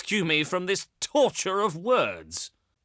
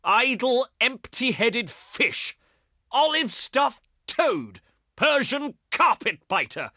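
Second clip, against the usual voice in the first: higher-pitched, theatrical contempt; declaimed disdain, pitched up; scornful insults; 6 semitones higher than usual. Acted. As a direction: hurl each insult with haughty scorn. Envoy hurls insults in refusal.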